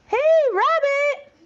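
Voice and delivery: high called-out "Hey, Rabbit!"; yelling. Acted. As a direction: call out loudly to someone inside. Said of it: "someone yelled outside".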